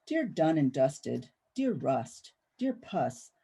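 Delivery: measured, rhythmic poetry recital with rising openings; poetry reading. Acted. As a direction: read each "Dear" address like a call, then let it settle. Reads poems from her book.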